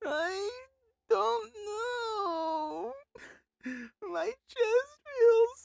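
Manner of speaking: tearful voice, crying while talking. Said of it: "Are you crying?".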